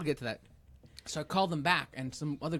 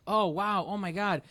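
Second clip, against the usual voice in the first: higher, playful fake astonishment; mock alarm; 6 semitones higher, 5 dB louder, slower than usual. Prankster answering IRS scam threats, mock alarm. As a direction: pretend to be taken aback.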